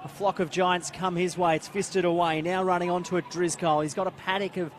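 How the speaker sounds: brisk, animated match commentary; live play-by-play. Real, not acted. Commentator following the footy up the ground, animated play-by-play. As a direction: keep driving the call along with the ball.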